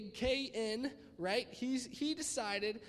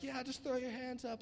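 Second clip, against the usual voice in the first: higher-pitched but restrained worship call; mild mock worship hype; worship conference leader; 4 semitones higher, 3 dB quieter than usual. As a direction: lightly imitate a worship leader rallying the room. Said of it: "a Hillsong conference".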